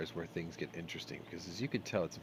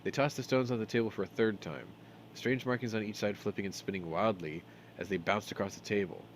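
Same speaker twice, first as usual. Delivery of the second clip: measured storybook reading; game text read as a story; story narration. A narrator's reading. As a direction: read the tale aloud, scene by scene.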